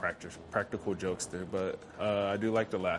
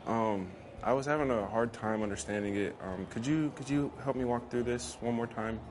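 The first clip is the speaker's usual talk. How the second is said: sweet-talking teacher's pet; 2 semitones higher than usual. Retold or imitated. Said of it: "Gets him every time".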